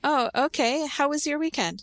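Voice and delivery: bright interest. Shown as a demonstration. Lively question in role play.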